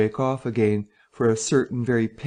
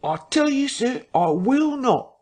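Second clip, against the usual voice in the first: raised refusal; 13 semitones higher than usual. Acted. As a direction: refuse him firmly, voice up. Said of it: "his voice rising".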